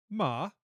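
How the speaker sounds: MA dipping down, then swinging up; falling-rising tone. Shown as a demonstration. Host demonstrating Mandarin tones, MA falling then rising. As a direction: drop then lift the pitch on MA. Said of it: "down and then up".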